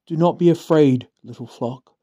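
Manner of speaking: measured, solemn Bible reading; scripture reading. Acted. Reads Luke 12 aloud.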